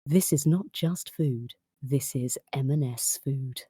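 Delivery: slow, drawn-out sexy food-advert read. Shown as a demonstration. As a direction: stretch it out like a seductive ad. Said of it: "You do the voice".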